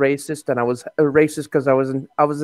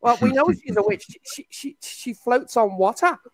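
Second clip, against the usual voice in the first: angry mob leader; 7 semitones higher, 3 dB quieter than usual. Pretend. Mock witch-trial villager reasoning.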